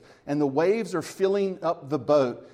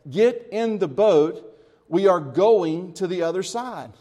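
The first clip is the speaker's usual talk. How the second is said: commanding; 2 semitones higher, 6 dB louder than usual. Retold or imitated. Quoting Jesus, repeated.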